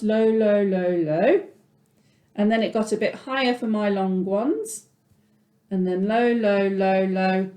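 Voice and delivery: teacher demonstrating the ostinato's pitches; singsong pitch demo. Shown as a demonstration. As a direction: voice the melody's pitch levels for the class. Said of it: "this is my lowest pitch".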